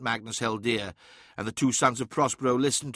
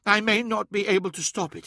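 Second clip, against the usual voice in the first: higher voice, firm and determined; resolute Ammon; 9 semitones higher than usual. A narrator's reading. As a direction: vow to defend home.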